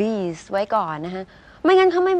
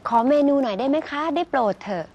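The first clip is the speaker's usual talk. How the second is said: slightly raised, pleading courtesy that sounds sarcastic; overdone politeness; 4 semitones higher than usual. Shown as a demonstration. Diner begging a waiter for the menu, sarcastically over-polite. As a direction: ask with exaggerated, near-mocking politeness. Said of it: "ฟังดูประชดประชดไหมพี่ตู้".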